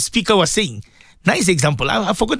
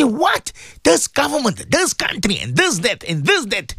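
mock complaining outburst; 5 semitones higher than usual. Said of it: "we say".

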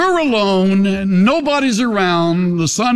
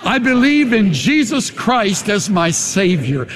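sincere confession; 3 semitones higher than usual. Shown as a demonstration. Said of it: "Say that".

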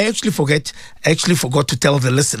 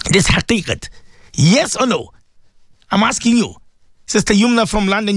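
ordinary delivery

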